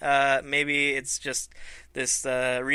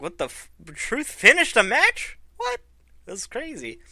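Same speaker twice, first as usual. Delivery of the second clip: retold disbelief; 7 semitones higher than usual. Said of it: "I was like".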